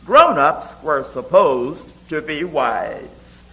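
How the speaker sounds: measured, rhythmic reading of her own poem; a poet reading her ballad-like poem to an audience; poetry reading. Acted. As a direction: read it like a ballad, giving each line its beat. Reads her poem aloud.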